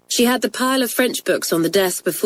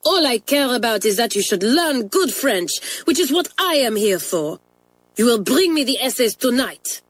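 put-on higher, stern French-accented order; Mamselle in a temper; 5 semitones higher than usual. French mistress losing her temper with the twins. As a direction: lay down the law. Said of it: "now quite losing her temper".

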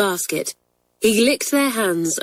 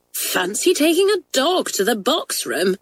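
higher, amazed exclamation; cried out; 6 semitones higher than usual. A narrator's reading. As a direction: gasp it out in wonder. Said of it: "cried Doris".

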